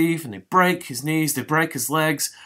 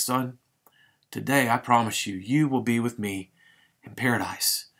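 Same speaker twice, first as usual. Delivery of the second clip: tender promise. Acted. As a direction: comfort a dying man gently. Jesus comforts the dying thief.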